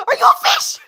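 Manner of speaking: breathless whispered accusation; hushed mock horror. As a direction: let it drop to a shocked whisper. Whispered end of bit.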